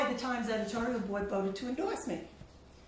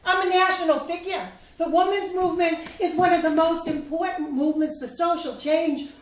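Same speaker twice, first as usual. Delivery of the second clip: raised, louder and higher, insisting; heated defense; 5 semitones higher, 5 dB louder than usual. Acted. To her advisor, defending her Senate run, raised insistent voice. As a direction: push back hard, voice up.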